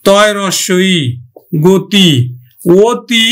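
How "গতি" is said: গতি said "go-ti", first vowel a rounded o; crisp teacher's "go-ti" for গতি; closed O sound. Shown as a demonstration. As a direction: demonstrate গতি with "go" as in English "go". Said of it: "তাহলে আমরা উচ্চারণ করব গয়কার".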